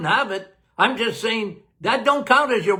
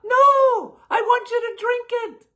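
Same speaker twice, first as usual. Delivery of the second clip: mock outburst, insisting they drink it; emphatic shout. Doctor answering the worried patient, high mock shout.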